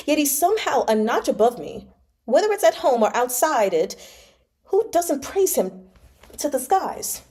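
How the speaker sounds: a wounded heir pouring out resentment; bitter drunk complaint. Acted. Drunk eldest son complains bitterly.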